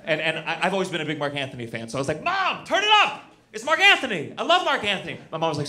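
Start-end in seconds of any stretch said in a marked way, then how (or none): 2.2-5.2 put-on high-pitched kid begging mom, easing off; excited little kid. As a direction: shout to mom like a thrilled child. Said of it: "when I was a little kid".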